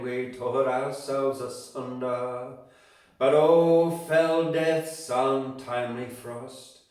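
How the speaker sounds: put-on poem read in a mild Scottish accent, slow and swelling; light Scottish accent. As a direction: give Burns a touch of Scottish lilt for the rhymes. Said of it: "a bit of a, a Scottish accent".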